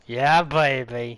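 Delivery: slow, drawn-out British catchphrase; British accent. Pretend. Asked to do a British accent for fun, hammed-up British. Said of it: "do a British accent".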